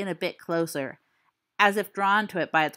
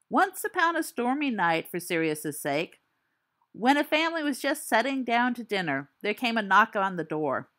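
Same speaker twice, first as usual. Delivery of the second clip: hushed ghost-story telling; story narration; 2 semitones higher than usual. Acted. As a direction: spin a spooky campfire tale.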